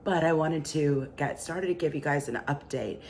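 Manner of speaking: barely-there raspy voice; raspy whisper. Real, not acted. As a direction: speak through a lost voice. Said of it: "but I have no voice".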